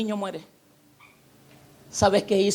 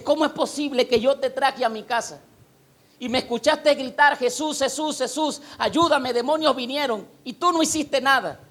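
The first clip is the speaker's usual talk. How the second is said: higher-pitched, acted-out complaint; indignant reproach; 4 semitones higher than usual. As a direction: protest as if wronged, voice raised in pitch. Man reproaches Jesus in story. (reclamo indignado, imitado)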